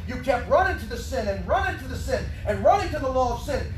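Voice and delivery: rising shout from the pulpit; preaching shout. Real, not acted.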